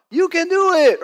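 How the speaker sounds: high, loud cheer of you can do it; mock yell from the crowd. Caleb yelling from the crowd, loud and high. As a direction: shout encouragement from the crowd. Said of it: "he's yelling out".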